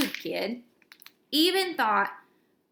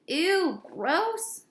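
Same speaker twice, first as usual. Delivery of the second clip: high, grossed-out ew; disgusted ew; 6 semitones higher than usual. Acted. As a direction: recoil in disgust. Kid reacts in disgust.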